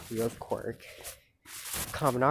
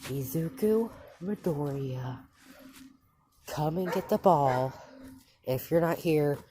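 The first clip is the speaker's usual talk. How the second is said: impatiently calling a missing student; annoyed teacher; 4 semitones higher than usual. Retold or imitated. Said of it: "he's getting annoyed".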